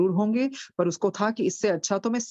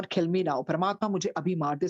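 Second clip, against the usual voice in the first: ordinary delivery, nothing marked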